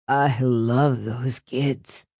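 low, slow, maudlin voice; acted tearful declaration. A narrator's reading. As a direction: drag it out, close to tears. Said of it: "He burst into tears".

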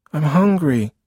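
put-on high, loud little-boy complaint; whining child. Boy repeating himself to busy big brother, whining.

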